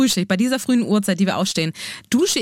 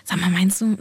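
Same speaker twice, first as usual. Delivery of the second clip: whispering; 2 semitones lower than usual. Retold or imitated. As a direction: lean in and whisper gently. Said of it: "dass man da vielleicht irgendwie mal so sagt".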